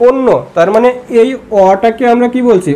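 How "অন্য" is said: অন্য said onno with an o sound; অন্য as onno, first vowel rounded to o; pronunciation demo. Shown as a demonstration. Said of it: "এটা কি হয়ে যাচ্ছে".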